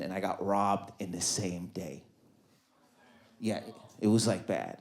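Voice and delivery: soft, low, heartbroken telling; glum. Real, not acted. Comic telling therapist about heartbreak, low and glum. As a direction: sink into the memory. Downcast confession.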